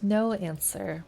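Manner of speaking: reading game text aloud, evenly; story narration. A narrator's reading. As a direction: narrate the scene like an audiobook.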